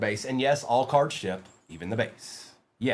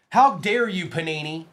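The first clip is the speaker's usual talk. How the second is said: mock outrage; 3 semitones higher than usual. Mock outrage at Panini card.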